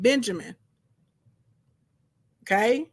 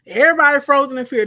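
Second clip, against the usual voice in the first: dramatic emphasis; 4 semitones higher, 7 dB louder, faster than usual. A narrator's reading. Dramatic retelling of frozen brothers.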